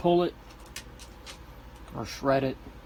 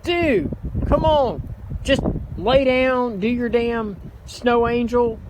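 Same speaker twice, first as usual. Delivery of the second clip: impatient shouting; 6 semitones higher, 7 dB louder than usual. Real, not acted. Freezing dad urges son to hurry.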